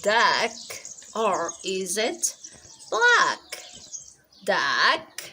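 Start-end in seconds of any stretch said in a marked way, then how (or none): 2.9-3.6 black thrown up high and loud as the wrong choice; contrast word. Shown as a demonstration. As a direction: ask black? with a big high leap. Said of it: "Which one?".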